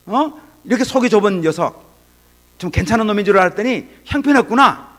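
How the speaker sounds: mock-scold him like a fed-up father; imitating an angry father. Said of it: "보통 아버지 같으면 그럴 거예요". (화난 아버지 흉내, 높은 목소리로 꾸짖듯)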